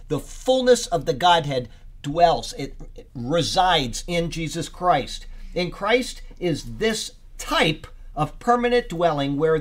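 preacher reading out a study note; emphatic read-aloud. Real, not acted. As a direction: read the commentary out with deliberate emphasis. Reads commentary aloud to group.

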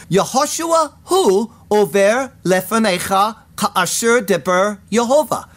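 "Yehoshua hu over lefanecha ka'asher deber Yehovah" read in Hebrew, with stress on "hu". Shown as a demonstration. Preacher reads the Hebrew of the verse aloud, with a stressed "hu". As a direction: give the Hebrew, leaning on "hu". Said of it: "and it is again emphatic".

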